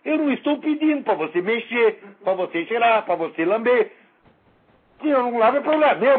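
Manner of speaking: loud, high, mocking comeback; defiant retort. Answering his detractor with loud mocking defiance. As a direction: throw the question back at the critic. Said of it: "eu também pergunto".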